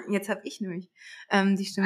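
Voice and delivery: hoarse, strained voice after a cough; talked-out voice, a little rough. Real, not acted. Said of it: "Ich hab so viel geredet die letzten Tage".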